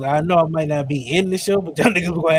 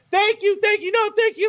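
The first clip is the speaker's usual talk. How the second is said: high fake-grateful woman's voice; mock gushing thanks. Driver thanking the forgiving man, high gushing mock voice. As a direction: gush thanks in a high squeak. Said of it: "She's like".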